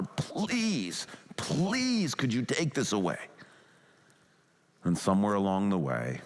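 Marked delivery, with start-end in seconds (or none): 0.0-3.2 mild begging. Retold or imitated. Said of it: "Jesus is begging the Father".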